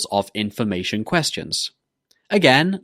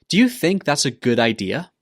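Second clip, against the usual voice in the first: "Do you think that's a good idea?" rising at the end; rising intonation; 3 semitones higher than usual. Shown as a demonstration. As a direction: lift the pitch on "idea?". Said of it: "needs to go up at the end".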